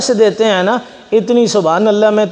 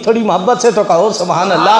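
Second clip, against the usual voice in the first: loving subhanallah; 2 semitones lower, faster than usual. Shown as a demonstration. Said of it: "इतनी ठंडी सुभान अल्लाह".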